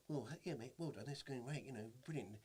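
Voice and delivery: mildly exaggerated celebrity impression; Harry Hill. Retelling comedian's congratulation call, lightly exaggerated impression. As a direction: lightly put on a gushing caller's patter. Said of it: "he doesn't really speak like that in real life".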